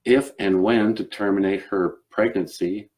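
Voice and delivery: earnest Southern gentleman endorsing a cause; Southern accent. Acted. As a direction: proclaim it firmly in a Southern accent. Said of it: "And he was like".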